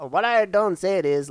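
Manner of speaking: loud, slow mock redneck twang; exaggerated redneck drawl. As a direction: play a dim hick with a Southern twang. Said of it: "you're talking like that".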